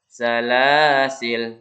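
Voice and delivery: "Salasil" cut off on the l, slow; stopping form. Shown as a demonstration. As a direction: stop dead on "Salasil". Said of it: "Atau berhenti".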